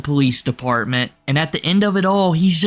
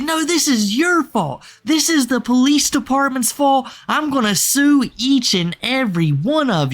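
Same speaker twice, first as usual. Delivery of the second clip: mock freaking out; 8 semitones higher than usual. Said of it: "He's like".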